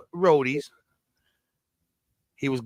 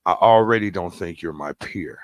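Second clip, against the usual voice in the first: mock dismissive; 8 semitones lower than usual. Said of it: "when a person says out their mouth".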